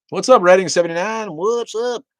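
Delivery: loud, high-pitched hollered greeting; excited shout-out. Real, not acted. Host greeting a viewer joining the chat, excited shout-out.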